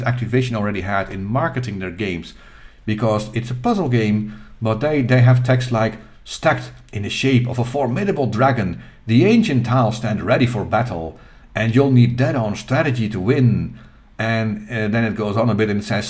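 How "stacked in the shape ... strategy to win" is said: lightly hyped box-copy reading; a touch of epic sales pitch; dramatic ad read. Acted. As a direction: read it like game marketing, punching key words. Reads hyped box text aloud.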